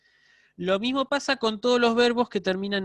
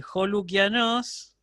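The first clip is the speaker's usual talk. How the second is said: pronunciación lenta; 3 semitones higher, slower than usual. Shown as a demonstration. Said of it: "por ejemplo, vamos a decir".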